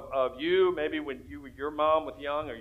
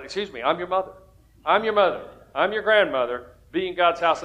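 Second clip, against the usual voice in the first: firm mom voice, a bit louder; playing the mom card; 3 semitones higher, 4 dB louder than usual. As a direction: insist like a mother.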